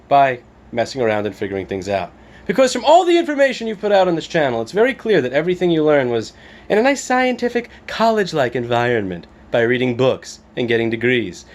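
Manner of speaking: sneering imitation of internet commenter; mock the snooty commenter. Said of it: "from some fuckface saying".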